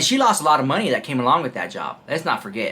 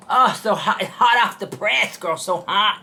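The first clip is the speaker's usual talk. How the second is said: higher-pitched, playful fuss over heat; hammed-up hot-tea reaction; 5 semitones higher than usual. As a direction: act mock-scalded by piping hot gossip. Pretends the tea is scalding.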